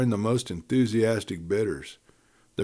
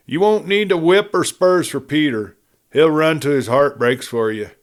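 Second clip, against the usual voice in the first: put-on higher, louder earnest girl's plea; earnest Joan; 5 semitones higher, 5 dB louder than usual. Joan earnestly assures the cattlemen, raised pitch. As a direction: plead for the horse with eager heart.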